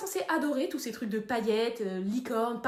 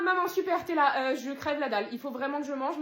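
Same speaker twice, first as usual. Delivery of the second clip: usual speaking voice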